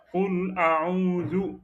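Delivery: قل أعوذ said clearly, rising on أعوذ; correct قل أعوذ. Shown as a demonstration. Teacher modelling the words for the student, spoken. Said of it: "c'est comme ça".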